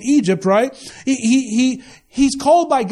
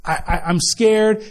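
scared; slower than usual. Retold or imitated. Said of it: "he's like".

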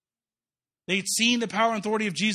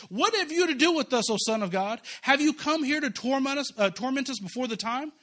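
demons crying out; 5 semitones higher than usual. Retold or imitated. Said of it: "they cried out".

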